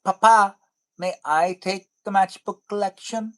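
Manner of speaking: put-on high-pitched child asking papa, loud first word; pretend child. Imagined child asks streamer for the collection, high child voice. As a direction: put on a little kid's hopeful request. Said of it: "one of them is like".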